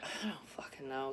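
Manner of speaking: unvoiced whispered reply; a hushed, fed-up whisper. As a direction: whisper it, exasperated. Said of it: "I'm like".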